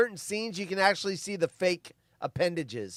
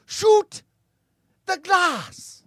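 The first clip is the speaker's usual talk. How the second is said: put-on loud, very high German-accented shout; Hans Gruber; 12 semitones higher, 8 dB louder, much slower than usual. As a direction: yell the order as a German villain. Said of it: "the German Hans Gruber speaks in Die Hard".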